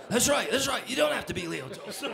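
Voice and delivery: high laughing repeat; giggling the line back; squealing with laughter as he repeats it; laughing agreement. Retold or imitated.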